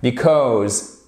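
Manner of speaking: "Because" said slowly and clearly; careful model pronunciation. Shown as a demonstration. Teacher showing learners the pronunciation, careful model pronunciation. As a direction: model "Because" with a long, falling second syllable. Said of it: "c'est la prononciation".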